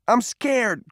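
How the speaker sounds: very high, anguished wail; frightened cry. A narrator's reading. Sobbing boy confesses his fear, crying out high. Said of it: "cried Peter".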